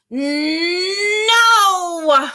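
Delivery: put-on high, loud stubborn little-boy no; defiant child's no. Child refusing his mother, a high defiant no.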